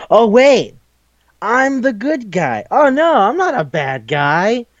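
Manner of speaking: high, drawn-out protest; mock yelling. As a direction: imitate a hero's dawning, wailing protest. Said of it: "After repeatedly yelling".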